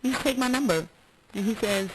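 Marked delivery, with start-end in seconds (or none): 0.0-0.9 mock flirty repeat. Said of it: "I did".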